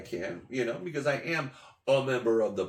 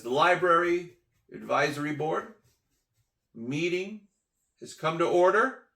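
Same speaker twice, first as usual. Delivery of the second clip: lightly voiced official, raised and halting; woman chairing meeting; 4 semitones higher, 5 dB louder than usual. Board woman calling the meeting to order, lightly acted announcement. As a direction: lightly imitate a formal announcement in chunks. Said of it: "one woman speaks up and says".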